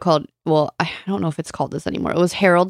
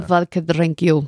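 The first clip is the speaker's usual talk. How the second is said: put-on Russian accent; slower than usual. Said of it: "In Mother Russia".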